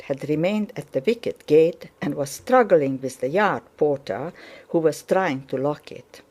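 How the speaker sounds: ordinary delivery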